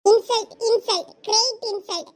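loud hammed-up cry of insult; comic loud protest; mock outrage. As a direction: shout it like a wounded hero. Reacting to being called beggar.

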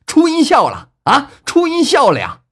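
very high, loud ecstatic yell; wild, overjoyed screaming; crazed shouting. A narrator's reading. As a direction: shout like you've gone mad with joy. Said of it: "忽然发疯一般的又跳又叫啊".

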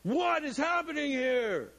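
startled shout with a laugh; freaked-out whoa. Pretend. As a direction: blurt it out, spooked and laughing. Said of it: "you'd be going".

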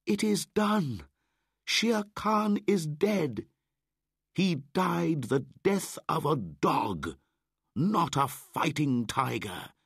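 high, loud and slow victory cry; triumphant shout. A narrator's reading. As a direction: proclaim the kill to the wolves. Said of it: "shouted to Akela and Grey Brother".

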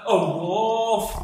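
high, loud alarm shout; acted cry of wolf. A narrator's reading. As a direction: shout a warning to the village. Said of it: "he shouted".

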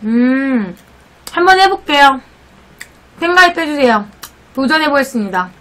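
talking while biting pizza; speech through mouthful of food; mouth full of pizza. Real, not acted. Seen 2: Pizza slice held in mouth, cheese stretching, throughout words.

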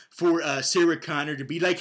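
ordinary talk, nothing marked

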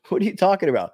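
can't believe what he's hearing; incredulous question. Retold or imitated. Disbelief at the revenge plan.

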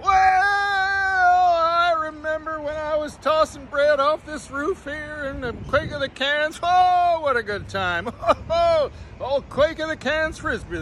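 put-on very high, strained cackling old-timer voice; squeaky old character. Vlogger playing a crazy old Frisbee guy, high squeaky voice. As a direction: reminisce like a wild old roof dweller.

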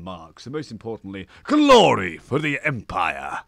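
imperial war announcement, building to a loud cry; rally the troops, punching the final glory; mildly Klingon. Acted. General James promising conquest for the Empire, mildly Klingon. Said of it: "getting mildly Klingon there".

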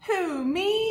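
high, surprised puppet squeak. Pretend. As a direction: answer like a startled little animal. Puppet answers in rhyme.

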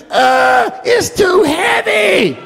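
put-on high, slow, strained child's cry; straining child. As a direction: whine it like a small boy struggling with a heavy bag. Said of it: "I can hear my son screaming".

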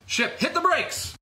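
high, urgent shout; yelled command. Acted. Sam yelling at the ship to brake. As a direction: scream the order mid-chase.

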